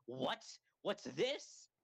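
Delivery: mock surprised reaction, rising at the end; Etika. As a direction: play a streamer baffled by a reveal. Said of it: "and then Etika's like".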